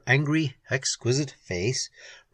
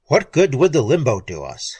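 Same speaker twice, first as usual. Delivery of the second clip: grunted; 5 dB louder than usual. Acted. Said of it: "grunted Keene".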